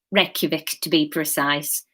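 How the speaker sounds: put-on Wigan accent, understated; light Wigan accent, matter-of-fact; Graham. Graham names his favourite place, Wigan accent. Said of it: "how to do a Wigan accent".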